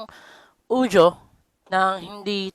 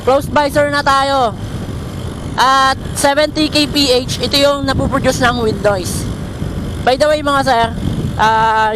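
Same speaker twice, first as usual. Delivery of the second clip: while riding; 2 semitones higher than usual. Real, not acted. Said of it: "tumakbo na naka-close yung ating visor".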